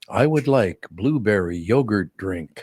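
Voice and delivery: put-on slow flat robotic toddler voice. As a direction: say it like a little robot. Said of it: "You did say it like a robot".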